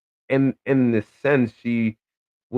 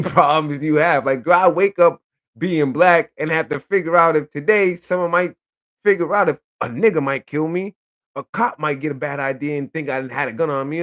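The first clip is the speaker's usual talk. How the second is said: louder and higher, building indignation; heated rant; 4 semitones higher, 4 dB louder than usual. Real, not acted. To women with anxiety, loud higher indignant challenge. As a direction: push it up, daring anyone to argue. Ranting about real anxiety.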